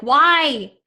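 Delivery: retold pleading questions, rising at first; pleading why. Grieving daughter retelling her questions about losing dad and grandpa, pleading. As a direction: ask why in mild, insistent protest. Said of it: "I'm like".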